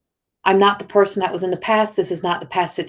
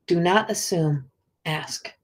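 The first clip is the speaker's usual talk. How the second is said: quiet slow motto; 2 semitones lower, 6 dB quieter, slower than usual. Real, not acted. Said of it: "That's a message most of us need to hear".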